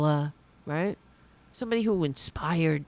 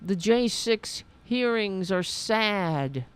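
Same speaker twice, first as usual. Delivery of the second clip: mocking slow drawl; 3 semitones higher, slower than usual. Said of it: "there's some".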